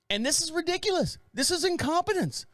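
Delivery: hammed-up complaining neighbor; a lightly voiced grumpy old neighbor; indignant old neighbor. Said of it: "And he goes".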